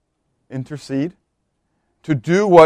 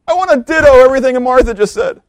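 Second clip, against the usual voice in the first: laughing; 10 semitones higher, 7 dB louder, faster than usual. Acted. Mary echoing Martha, joking.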